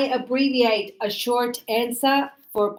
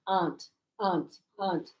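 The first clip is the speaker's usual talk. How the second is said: repeating softly; 3 semitones lower, 8 dB quieter, faster than usual. Shown as a demonstration.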